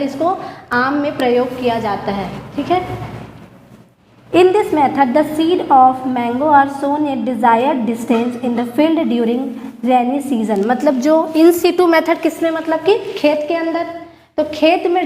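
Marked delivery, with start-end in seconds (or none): 4.3-10.6 very slow, word-by-word dictation to students. Shown as a demonstration. Teacher dictating notes to her class, very slow and deliberate. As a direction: spell it out slowly so the class can write it down.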